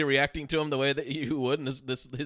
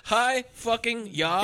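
high, slow mock battle cry; hammed-up but not shouted karate call; imitated karate cry; 7 semitones higher, slower than usual. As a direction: draw it out like a karate chop. Repeats the karate chop shout.

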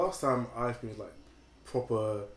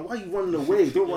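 higher, louder challenge to someone running off; retold challenge; 7 semitones higher, 8 dB louder than usual. Man retells yelling after the fleeing car, raised challenge. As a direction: call after them, indignant.

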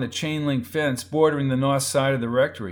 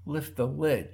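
barely voiced, near-silent mouthing; just shape the words without sound; mouthed words; 6 dB quieter than usual. A narrator's reading. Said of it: "he mouthed the words".

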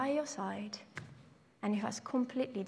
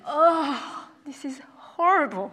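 horrified whisper; 4 semitones higher, 9 dB louder, slower than usual. Retold or imitated. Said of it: "And, and I was like".

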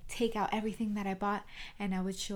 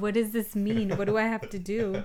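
retold confusion; 6 dB louder than usual. Retells own confusion, laughing.

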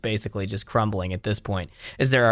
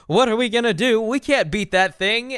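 put-on high, frightened kid voices; scared kids; 11 semitones higher than usual. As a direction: cower and whimper it. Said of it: "They're like".

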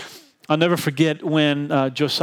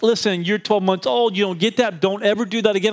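higher mock scolding of a baby; a half-hearted fatherly telling-off; father scolds one-year-old, higher and mock stern; 5 semitones higher than usual. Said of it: "I wanna scold him".

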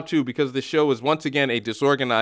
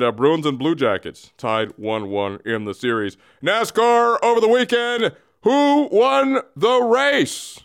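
alien voice. Acted. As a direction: greet the Earthlings like a visiting alien. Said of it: "Here is Bagman".

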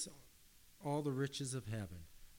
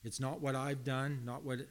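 emphatic preaching; 2 semitones higher, 5 dB louder than usual. Real, not acted. Preacher builds to emphatic point.

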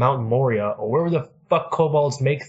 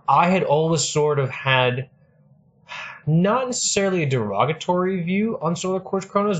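burping the words; 5 semitones higher than usual. Real, not acted. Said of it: "like, burp talking".

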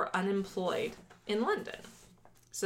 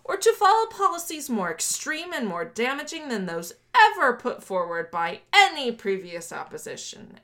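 lightly declaimed political prose, raised pitch; formal quote reading; 5 semitones higher, 3 dB louder than usual. Acted. Host reading Thatcher's foreword to co-host, mildly oratorical. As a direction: read it out like a manifesto. Reads manifesto quote aloud.

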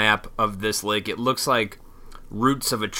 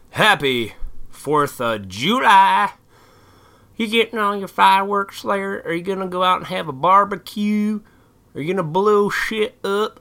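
put-on hammy redneck accent, stretching July into Judy; 9 semitones higher than usual. Vlogger wishing viewers a happy Fourth, in a redneck accent. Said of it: "like, a redneck accent for that".

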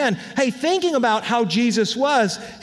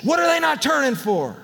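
son echoing dad; 3 semitones higher than usual. Retold or imitated. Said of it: "He's like".

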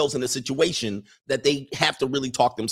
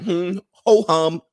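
slow, drawn-out, higher ho-hum, a bit louder; old woman unbothered; 4 semitones higher, 6 dB louder, much slower than usual. Retold or imitated. Old maid shrugging off the beating, slow and bored. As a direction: drag it out like nothing's new. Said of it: "the old black woman is like".

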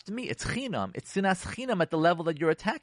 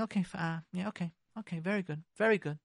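holding it in; 3 semitones higher, 5 dB quieter than usual. Acted. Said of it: "That's holding it in".

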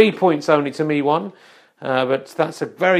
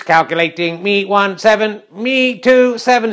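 robot voice. Acted. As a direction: give the score as a calculating machine. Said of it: "let's go to the robot voice".

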